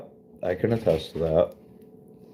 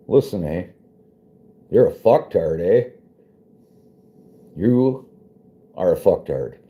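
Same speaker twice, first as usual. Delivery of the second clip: put-on Canadian accent; 2 semitones higher, 3 dB louder than usual. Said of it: "That's my Canadian accent".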